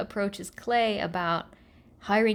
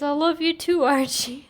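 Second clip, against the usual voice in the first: Reggie; 4 semitones higher, 4 dB louder than usual. Retold or imitated. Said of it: "And Reggie says".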